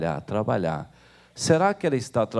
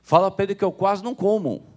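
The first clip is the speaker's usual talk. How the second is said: mother protesting; 7 semitones higher than usual. Acted. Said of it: "Aí ela falou".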